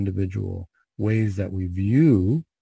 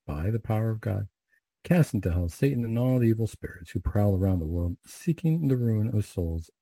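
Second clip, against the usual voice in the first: measured devotional recitation, falling at each Amen; recited prayer. Real, not acted. Priest leading the Hail Mary and closing prayers, recited prayer. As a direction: pray it in practiced, even phrases.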